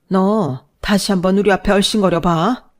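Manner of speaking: furious threat. Acted. Mother threatens son-in-law.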